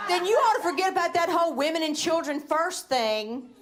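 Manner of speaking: high, scornful what, you're a feminist; high mocking incredulous dude; dude impression. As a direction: sneer it like a smug guy. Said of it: "That's my impression of that dude".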